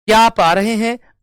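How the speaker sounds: "क्या आप आ रहे हैं" called out high and loud; loud, high question tune on "क्या आप आ रहे हैं"; questioning phone call. Shown as a demonstration. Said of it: "मैंने कहा फोन करके".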